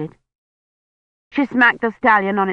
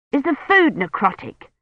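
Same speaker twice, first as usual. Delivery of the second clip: eager question; 8 semitones higher than usual. Acted. Eager boy asking about food.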